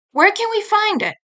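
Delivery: lightly voiced eager girl. Girl asks.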